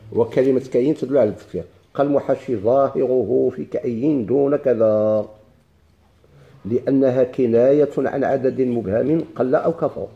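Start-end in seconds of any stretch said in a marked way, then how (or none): 2.6-10.1 slow, drawn-out classical Arabic reading; formal text recitation. Acted. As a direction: read the passage slowly, stretching the long vowels. Reads the book text aloud.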